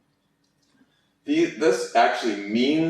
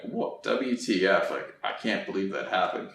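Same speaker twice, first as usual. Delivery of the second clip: hushed disbelief; 5 dB quieter than usual. Shown as a demonstration. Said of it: "You're like".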